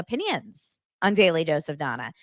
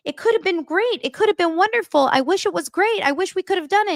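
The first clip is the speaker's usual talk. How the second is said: mock wistful; 11 semitones higher, 3 dB louder than usual. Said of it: "she says to herself".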